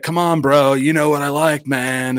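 lightly exaggerated California bro talk; California bro accent. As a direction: imitate a California dude pleading. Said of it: "You really talk like that?".

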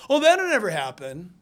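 loud mock brush-off; imitated dismissal. Critical family member shooting down hopes, mock dismissal. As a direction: dismiss it with a punchy start. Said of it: "talking like that".

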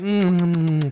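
high hummed mock snore; imitated snoring. Storyteller imitating the sleepers in the house, imitated snoring. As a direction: hum like someone peacefully sawing logs. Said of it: "peacefully sawing logs in the house".

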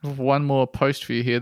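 ordinary talk

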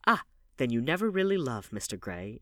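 feigned sorrow, lightly played; mock sadness. A narrator's reading. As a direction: put on a little sadness. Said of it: "with mock sadness".

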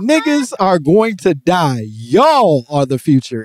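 drawn-out mock oratory; imitated speaker's rant. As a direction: lightly mimic a speaker proclaiming it. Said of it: "He said".

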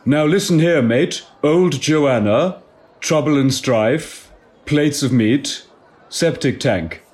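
cockney slang drawn out word by word; cockney accent laid on thick; cockney slang attempt. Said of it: "I can try again".

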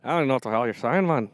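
quick mock Southern accent; hammed-up Southern imitation, dumbed down; Matthew McConaughey. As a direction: put on a dopey Southern voice. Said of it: "You sound kinda like, uh, Matthew McConaughey".

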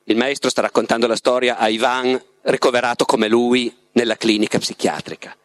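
measured literary narration with pauses; story narration. A narrator's reading. The Master recounts his love to Ivan, measured storytelling. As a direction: read the Master's tale unhurriedly, phrase by phrase. Reads the novel aloud, as the Master.

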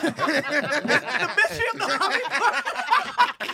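slow, high movie-trailer announce; dramatic announcer. Acted. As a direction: roll it out like a cheesy case title. Announcing a mock case title.

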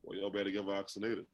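retold in a soft, hushed voice; mildly imitated hush of a man who had covid; still small voice. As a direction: say it low and hushed, like a quiet warning. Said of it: "in a still small voice goes".

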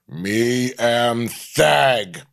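very slow, dim caveman voice; caveman Steve. Acted. The speaker mocking Steve as a primitive, slow caveman voice. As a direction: drag the words out like an Australopithecus. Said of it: "looking as much like an Australopithecus".

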